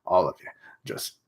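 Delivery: light mock German villain voice; shitty German accent. German villain cursing the clever kids, in a bad German accent. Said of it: "give him a shitty German accent".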